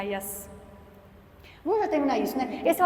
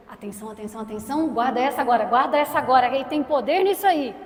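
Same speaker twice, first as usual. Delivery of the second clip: emphatic announcement; 6 dB louder than usual. Acted. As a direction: call for attention, growing louder. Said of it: "A resposta dele foi".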